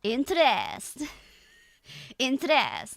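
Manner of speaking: "Interest" slow, with full eh at the end; Scottish INTEREST. Shown as a demonstration. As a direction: stretch the last syllable of "Interest". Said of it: "turns interest into interest".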